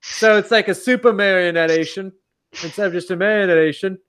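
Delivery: lightly put-on British bloke accent; bad British accent. Mocking the UK producers in a bad British accent. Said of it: "that's the worst British accent you've heard".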